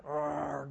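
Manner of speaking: low, rumbling dog growl over a bone; imitated dog growl. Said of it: "growl sound when they're gnawing".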